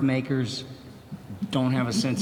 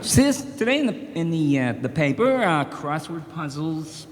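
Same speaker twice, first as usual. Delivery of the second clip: Leno impression. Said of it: "You know".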